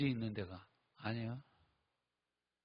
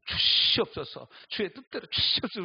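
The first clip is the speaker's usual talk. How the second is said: solemn prayer; 6 semitones higher, 8 dB louder than usual. Retold or imitated. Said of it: "우리 이렇게 기도해".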